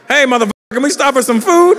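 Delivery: high, loud, brazen demand; brash yell. Pretend. Kid to dad on the way home tonight, brash mock yell. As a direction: call out brashly at high pitch.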